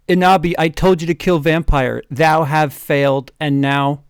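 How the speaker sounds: hammy Dark Lord. Acted. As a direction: boom it out like a stage villain. Friend voices Voldemort's threat.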